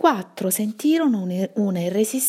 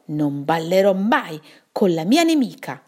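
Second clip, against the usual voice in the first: firmly decided; 4 dB louder than usual. Acted. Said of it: "sottolineò decisa Nuvola Nera".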